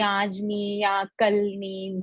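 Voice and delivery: slow, gentle putting-off; sweet refusal. Acted. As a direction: turn someone down lovingly, taking it slowly. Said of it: "बड़े प्यार से मना कर देना". (प्यार से टालते हुए, धीरे-धीरे)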